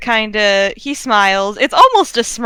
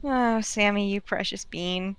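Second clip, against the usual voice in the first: very soft, fond murmur; tender cooing; 2 semitones lower, 11 dB quieter than usual. Real, not acted. Game master reacts to Sammy's hug, softly adoring. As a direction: say it softly, melting with affection.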